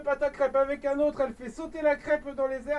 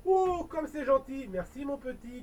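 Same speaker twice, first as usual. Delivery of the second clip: softened; 3 semitones higher than usual. Acted. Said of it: "qui s'est radoucie".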